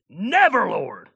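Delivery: high, loud exclamation in a put-on accent; loud accented Peter. Disciple rebuking Jesus, loud and high in a put-on accent. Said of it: "I think he has that accent".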